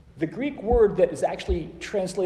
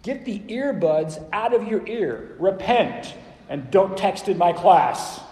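scolding teacher; 6 dB louder, slower than usual. Retold or imitated. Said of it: "me as a teacher saying".

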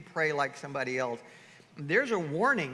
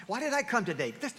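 mock scared; 4 semitones higher, faster than usual. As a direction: pretend panic at being called up. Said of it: "you'd be scared to death".

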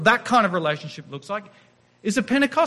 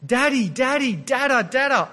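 put-on little child calling; 5 semitones higher than usual. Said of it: "the informal word that a little child would use".

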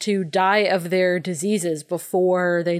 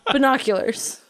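higher, through the tail of a laugh; amused, laugh-tinged correction; 5 semitones higher than usual. Real, not acted. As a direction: still giggling as you say it. Laughing over the wrong word.

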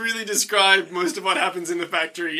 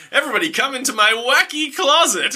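higher, lively mock showman's invitation; Wonka; 7 semitones higher, 3 dB louder than usual. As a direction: imitate a zany host beckoning everyone in. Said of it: "and he's like".

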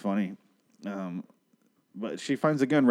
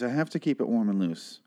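mock erotic; 3 dB quieter than usual. Podcaster repeating a warm-up line to listeners, mock erotic. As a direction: make the vocal warm-up sound jokingly erotic. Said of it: "It sounds very erotic when I say it that way".

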